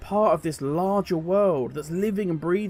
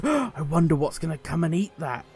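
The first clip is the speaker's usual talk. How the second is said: excited wonder; 2 semitones lower than usual. Retold or imitated. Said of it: "turns to you all excited and goes".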